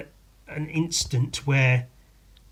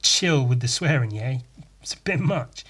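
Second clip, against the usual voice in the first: bro-ish telling off; 5 dB louder than usual. Retold or imitated. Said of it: "it wasn't like".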